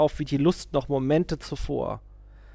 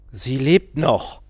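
soothing; 8 dB louder, slower than usual. A narrator's reading. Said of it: "sagte er beruhigend".

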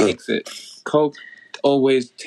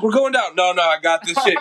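imitated Navy guys; 4 semitones higher than usual. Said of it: "these Navy guys".

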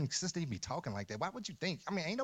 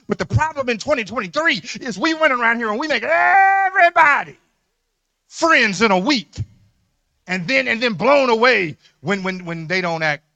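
loud, soaring preacher's cry; preaching at full force; 7 semitones higher, 15 dB louder than usual. Acted. Pastor warning the congregation about overnight friends, loud preaching cry. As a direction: lift the church with a loud climax.

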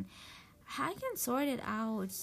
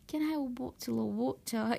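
put-on British English accent. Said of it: "uh, British English".

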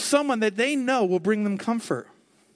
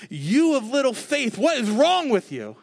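higher, louder scolding put-down; mock put-down; 4 semitones higher, 4 dB louder than usual. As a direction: scold them like a disappointed boss. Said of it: "This wasn't a put down from Jesus saying".

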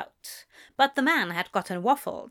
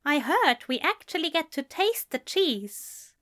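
raised, eager gentleman's voice; a curious, lightly higher Aziraphale; Aziraphale's voice; 6 semitones higher than usual. A narrator's reading. Fussy angel asking Crowley about cheese, raised and eager.

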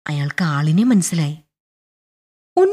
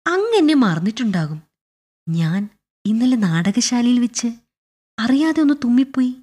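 mildly anxious, higher-pitched explanation; 5 semitones higher than usual. Acted. Clerk nervously approaches busy general to explain, mildly anxious. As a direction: explain yourself with a touch of worry. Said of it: "മനസ്സിലാകെ ആശങ്കയുമായി അയാൾ പറഞ്ഞു".

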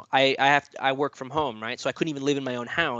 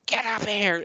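yelling for wife; 8 semitones higher, slower than usual. Retold or imitated. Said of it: "yelling for my wife".

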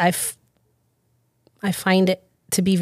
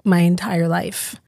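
hoarse from being sick; rough, sick voice; smoker's rasp. Real, not acted. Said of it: "I sound like I've smoked my entire life".

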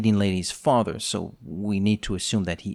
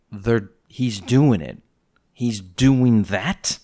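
slow, amazed disbelief; drawn-out astonished exclaiming; mock excited exclaim; slower than usual. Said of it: "I yelled something".

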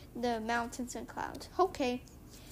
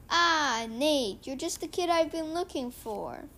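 louder, bright eager greeting; eager teacher; 4 semitones higher, 4 dB louder than usual. Acted. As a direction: hail the kid you've been looking for.

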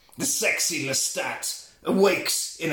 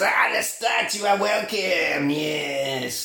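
Marius; slower than usual. Acted. Marius appears on the balcony, hammed-up French welcome. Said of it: "A French voice".

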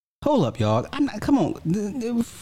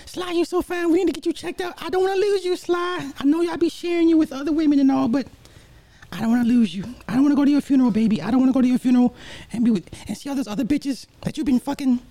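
man doing a woman's voice; faster than usual. Retold or imitated. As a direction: pitch way up into a swooning woman. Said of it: "my girl voice sucks".

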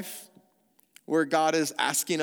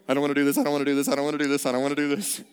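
wimp husband whimper; 3 dB louder, much faster than usual. Retold or imitated. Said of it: "I am the wimp husband going".

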